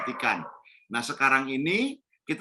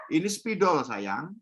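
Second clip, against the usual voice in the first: tender answer; 3 semitones higher, slower than usual. Shown as a demonstration. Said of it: "baru dijawab".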